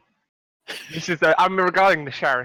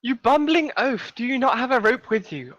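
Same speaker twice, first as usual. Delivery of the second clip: scornful scolding; 4 semitones higher than usual. Acted. Character to bumbling oaf without a rope, scornful.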